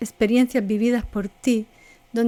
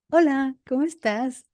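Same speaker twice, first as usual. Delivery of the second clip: 1 bright greeting; 3 semitones higher than usual. Shown as a demonstration. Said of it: "la distinción entre lo que digo y cómo lo digo".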